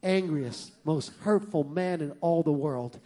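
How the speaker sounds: low, hushed scheming wife; a hint of a sly whispering wife; wife plotting revenge on her husband, hushed; conspiratorial lady. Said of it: "She said".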